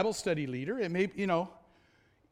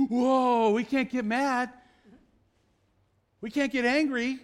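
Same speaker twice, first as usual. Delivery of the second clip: a touch higher, mild mock alarm; mock objector; 4 semitones higher, 5 dB louder than usual. Preacher mimicking those who won't admit anger, mild mock protest. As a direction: imitate someone lightly protesting.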